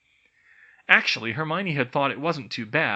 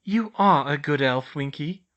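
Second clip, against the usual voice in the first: encouraging; 3 semitones higher, 6 dB louder than usual. A narrator's reading. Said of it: "Hermione encouraged her".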